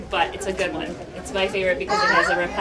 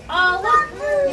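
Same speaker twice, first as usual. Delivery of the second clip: put-on high, bright child-directed "oh look"; talking to a toddler; 3 dB louder than usual. Shown as a demonstration. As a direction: point it out to a little one. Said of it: "you can give her a word, like".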